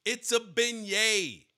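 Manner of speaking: slow, careful "beignet" as ben-YAY; correcting pronunciation. Shown as a demonstration. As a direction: spell it out by ear, ben-yay, slowly. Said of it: "how to pronounce".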